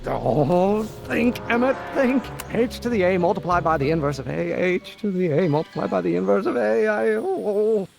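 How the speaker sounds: wound-up inventor wrestling with a problem; intense, wound up. Acted. Inventor stuck on a conundrum, talking to himself intensely. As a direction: urge yourself on, intensely, as you puzzle. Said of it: "I was gonna say intense".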